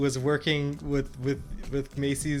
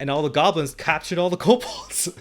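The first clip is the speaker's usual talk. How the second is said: laughing; 4 semitones higher, 5 dB louder than usual. Real, not acted. Laughing while recounting captured kobolds.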